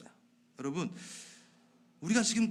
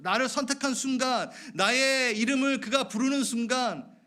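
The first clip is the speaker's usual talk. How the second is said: high, raised preacher's proclamation; impassioned preaching; 7 semitones higher, 4 dB louder than usual. Real, not acted. Preacher telling listeners they are chosen, impassioned preaching. Sermon climax on being chosen.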